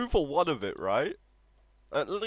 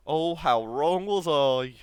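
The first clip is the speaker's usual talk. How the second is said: wry regret; 6 dB louder, slower than usual. Real, not acted. Mocking his own old prediction.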